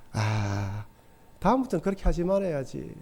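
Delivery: low, soft musing to himself; quiet inner thought. Retold or imitated. Thinking to himself after the apology, low and soft. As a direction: murmur it like a private resolution. Preacher voices his own inner resolve.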